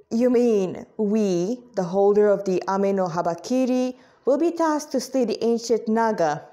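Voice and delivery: mild reluctance, not keen on the task; without much enthusiasm. Acted. Swordswoman hearing she must slay a Naga, unenthused. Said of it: "Mokara spoke without much enthusiasm".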